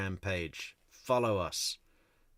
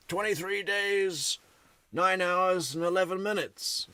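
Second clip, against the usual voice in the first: eager countdown voice; 11 semitones higher, 4 dB louder than usual. Retold or imitated. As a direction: savor each unit like a giddy fan. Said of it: "Everyone was like".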